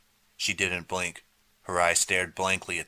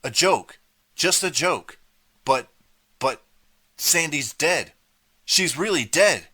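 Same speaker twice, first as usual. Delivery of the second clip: very high, loud, breaking panic; panicked shouting; 9 semitones higher, 7 dB louder than usual. A narrator's reading. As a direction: shriek it in horror. Artie panics, Sandy seems dead.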